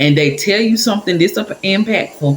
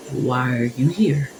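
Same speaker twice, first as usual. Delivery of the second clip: soft, slow, gentle question; calming; 3 semitones lower, 6 dB quieter than usual. Retold or imitated. Older lady drawing out a scared stranger, calming. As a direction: ask it soothingly, softly and unhurried. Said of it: "her voice was so calming".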